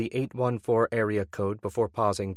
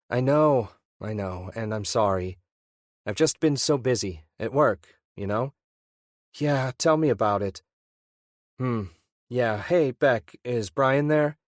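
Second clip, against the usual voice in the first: Ian on the phone; 2 semitones higher than usual. Acted.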